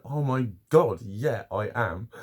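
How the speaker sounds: hammed-up delight at a sales call; mock eagerness. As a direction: gush at the caller, stretching the yes. Acted eagerness to a telesales caller.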